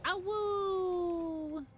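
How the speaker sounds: howling like a wolf. Pretend. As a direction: throw your head back and howl. Wolf howl while fighting wolf.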